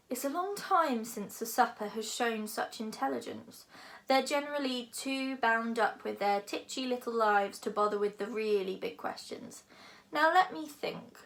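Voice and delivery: a lightly voiced big dragon, amused. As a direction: play the dragon, pleased with himself. Dragon speaks to Hiccup.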